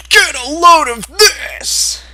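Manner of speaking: hammed-up taunt shouted across the field. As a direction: yell it out like a challenge. Mech taunts before the fight.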